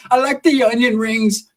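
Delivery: high, slow mimicry; Sheila. Sheila ordering at Burger King, high mimicking voice. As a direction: stretch it out in her high voice. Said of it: "that's how she talks".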